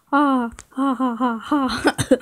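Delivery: awkward forced ha ha; fake laugh. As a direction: laugh nervously on purpose.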